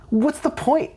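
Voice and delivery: high-pitched mock exasperation; exasperated counselor. Counselor to a student two years behind, mock exasperated.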